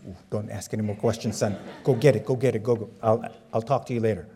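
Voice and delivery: hushed mom. Retold or imitated. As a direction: shush the boy and rush him along. Mom hushing son quickly.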